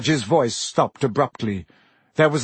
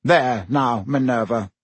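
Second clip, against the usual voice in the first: kindly. Acted. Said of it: "said Fudge kindly".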